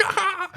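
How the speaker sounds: high-pitched mock ghostly cackle; imitated ghost laugh. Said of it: "staring me in the eyes and laughing".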